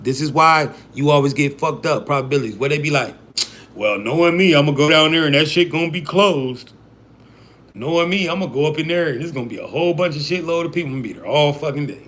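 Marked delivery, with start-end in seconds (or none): 3.7-12.0 a lightly voiced gloomy NPC expecting the worst; a hint of a resigned bystander grumbling; pessimistic NPC. Gamer mocks NPCs who expect the worst, lightly voiced gloom. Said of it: "this is what you hear N P Cs do".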